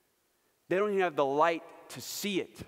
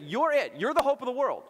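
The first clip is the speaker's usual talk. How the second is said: raised, loud, pointed declaration; Jesus, emphatic charge; 8 semitones higher, 5 dB louder than usual. Acted. Preacher voices Jesus charging his followers, emphatic. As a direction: press it on the listeners with conviction. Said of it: "Jesus is looking at his followers and saying".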